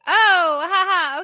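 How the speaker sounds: high, loud nervous laughter; panicked laugh at being caught. Retold or imitated. Caught giving forbidden snack.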